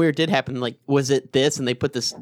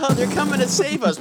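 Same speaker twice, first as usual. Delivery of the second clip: dreamy naive gushing; 8 semitones higher than usual. Retold or imitated. Mocking naive alien fan.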